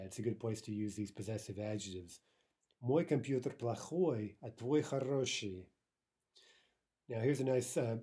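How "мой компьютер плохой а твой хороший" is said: мой and твой set against each other; slow, clear contrast of мой and твой; contrastive stress. Shown as a demonstration. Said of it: "if we're contrasting".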